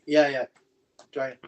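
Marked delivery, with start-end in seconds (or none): 1.1-1.4 smoky dragon breath. Pretend. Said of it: "That was good".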